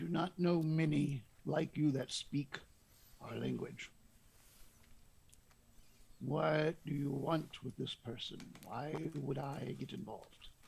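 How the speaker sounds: really deep, low, soft put-on voice. Voicing a character who questions a stranger's request: really low voice. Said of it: "I'm doing, like, a really low voice".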